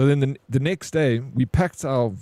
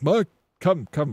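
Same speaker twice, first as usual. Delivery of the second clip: retold yell; 4 semitones higher, slower than usual. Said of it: "I scream to Mike".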